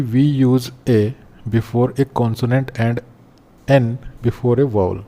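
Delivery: very slow, every word spelled out for students; dictating the rule. Shown as a demonstration. Teacher to Hindi class, dictating the rule very slowly. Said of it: "सबसे पहला point है कि".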